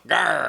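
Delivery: short playful growl; mock growl. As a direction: growl like a tough guy. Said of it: "was like".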